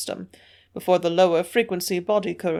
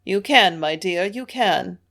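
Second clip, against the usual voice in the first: usual speaking voice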